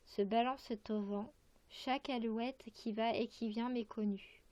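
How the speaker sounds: measured verse reading with pauses between phrases; poem recitation. Acted. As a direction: recite line by line, carefully articulated. Reads a poem aloud. (lecture de poème, vers par vers)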